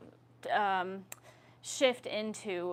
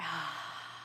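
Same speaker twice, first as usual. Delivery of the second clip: open mouth sigh; 7 semitones lower, 9 dB quieter than usual. Shown as a demonstration. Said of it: "one more big breath out together".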